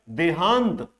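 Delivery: देहांत with weight on the long हां; stress on long vowel. Shown as a demonstration. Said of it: "वहीं पर ज्यादा जोर दिया जा रहा है".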